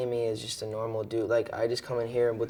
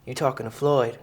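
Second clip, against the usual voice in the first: Mayweather impression; 3 semitones higher, 6 dB louder than usual. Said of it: "And he's like".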